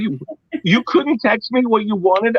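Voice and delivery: high, slow exasperated question; exasperated high rant. Retold or imitated.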